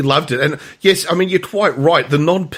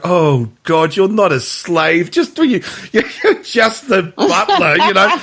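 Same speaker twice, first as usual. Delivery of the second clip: eye-rolling complaint, rising higher; mock exasperation; 5 semitones higher, slower than usual. Imitating Renato answering his butler, mock exasperation. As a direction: act out a fed-up employer. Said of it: "rolls his eyes".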